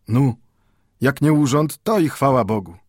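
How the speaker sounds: put-on old Mendel answers the clerk warily; old Jewish bookbinder. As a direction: answer cautiously, warding off ill. Mendel's forced relief.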